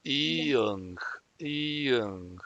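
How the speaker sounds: "Iung" ending in a nasal ng; teacher models the word twice; Korean word. Shown as a demonstration. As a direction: glide into a ng close. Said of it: "terminamos con N G de nuevo".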